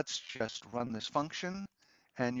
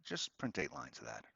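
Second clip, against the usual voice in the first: casual afterthought; 5 semitones higher than usual. Acted. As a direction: toss it in as if it just occurred to you. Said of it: "and as an afterthought".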